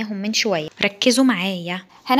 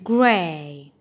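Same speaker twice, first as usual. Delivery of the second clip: British accent; 6 semitones lower than usual. Shown as a demonstration. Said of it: "ده British وده American".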